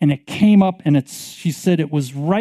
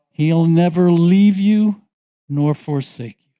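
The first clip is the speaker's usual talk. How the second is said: slow declaration. Acted. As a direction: proclaim it firmly. Preaching declaration.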